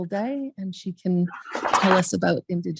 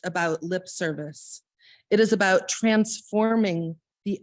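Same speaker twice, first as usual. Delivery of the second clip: measured, slower reading of a quotation; formal reading. Acted. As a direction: read the passage with weight and care. Reads a quoted passage aloud.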